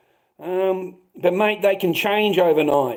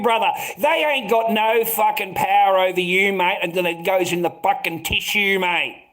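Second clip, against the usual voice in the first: heated rant; 5 semitones higher than usual. Real, not acted. Ranting, heated advice.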